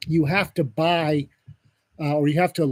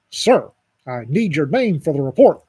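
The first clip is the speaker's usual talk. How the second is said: louder, firmly insistent official demand; insistent operator; 5 dB louder than usual. Retold or imitated. Emergency operator demands the reluctant bystander's name, louder and insistent. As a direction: press the caller firmly for it. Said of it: "And she gets real".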